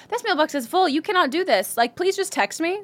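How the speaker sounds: high-pitched pleading recorded announcement; mock insistent greeting. Imagined stern mailbox greeting.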